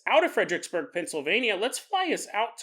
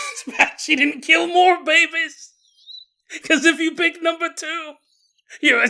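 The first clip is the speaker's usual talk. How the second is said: put-on sinister old lady; 8 semitones higher, 5 dB louder than usual. Blanche's sinister twist.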